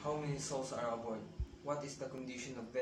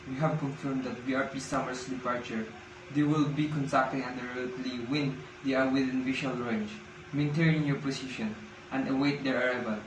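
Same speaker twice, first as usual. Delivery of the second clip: louder, firm radio call; 7 dB louder than usual. Acted. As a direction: call it out over static. Calling ship again over radio.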